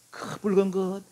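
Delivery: hammed-up hungry cry; mock desperate craving; famished Esau. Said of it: "하고 오니까".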